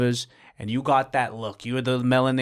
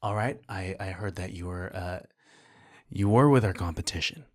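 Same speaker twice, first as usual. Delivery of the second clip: rival director; 7 semitones lower, 5 dB quieter than usual. Acted. Playing a different, rival director.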